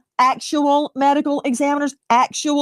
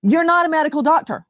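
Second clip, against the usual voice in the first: emphatic, insistent challenge; combative cross-examination; 3 semitones higher than usual. Real, not acted. Host challenges lawyer guest on his medical credentials, combative. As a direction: cut off an evasive witness firmly. Cutting off an evasive witness.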